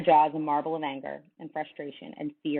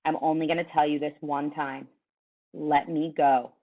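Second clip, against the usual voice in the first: flat and hard. Acted. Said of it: "His voice was flat, hard, scary".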